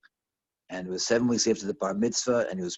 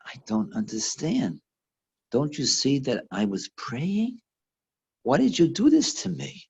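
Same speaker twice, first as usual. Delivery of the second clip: hurt pleading; 3 semitones higher than usual. Retold or imitated. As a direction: plead for an explanation, rising in distress. Hurt woman confronts her attacker.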